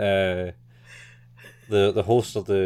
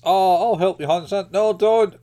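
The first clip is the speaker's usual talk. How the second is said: high, louder play-acted back and forth between coworkers; mock coworker voices; 10 semitones higher, 6 dB louder than usual. Retelling coworkers fussing over heavy boxes, high and louder. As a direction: squeak out the offer, then the refusal.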